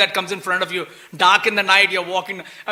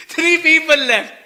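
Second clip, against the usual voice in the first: high, slow, laughing repeat; laughing disbelief; 8 semitones higher, 6 dB louder, slower than usual. Real, not acted. Teacher laughing at the tiny army left, high and slow.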